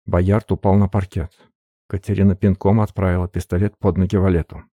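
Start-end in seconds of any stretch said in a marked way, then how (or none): none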